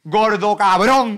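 high, loud, stretched shout; mock insult yell. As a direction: bellow it slowly as a parody insult. Imita insultos de los comentarios. (insulto gritado y alargado)

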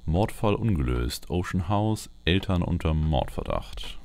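usual speaking voice

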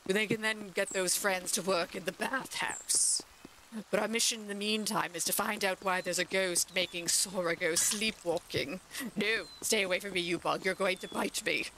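a hint of a grand duchess. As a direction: play the lady of the house addressing guests. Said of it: "now I gotta go back to the Duchess voice".

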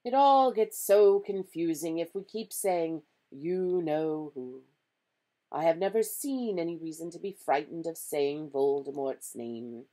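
calm, projected character voice; reasoning Dumbledore. A narrator's reading. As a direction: explain patiently as the wise professor.

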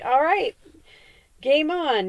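loud, high, fired-up challenge; cocky game-on cheer; pumped up. Retold or imitated. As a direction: rise to the challenge, ready to fight. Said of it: "the human side that's like".

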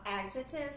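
adjective as AD-jective; quick unstressed ending after AD in adjective; stress on first syllable. Shown as a demonstration. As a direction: put the weight on AD in adjective. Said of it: "a primeira sílaba que é tônica".

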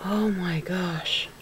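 slow, overwhelmed near-whisper; holding back tears. Real, not acted. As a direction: whisper it, fighting happy tears. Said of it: "I'm trying to hold it back".

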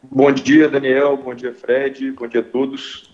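muffled through a face mask; speaking behind a face mask. Real, not acted. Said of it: "que eu tô de máscara aqui".

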